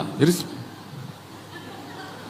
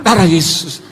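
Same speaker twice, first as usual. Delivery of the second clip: imitated latah exclamation; mock startled outburst; 3 dB louder than usual. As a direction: blurt it out as if startled. (tiruan celetukan latah)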